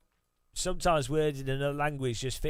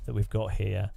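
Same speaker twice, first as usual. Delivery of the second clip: mock podcast bro; 2 semitones lower than usual. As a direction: parody the hype host selling junk. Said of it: "I need to talk like this".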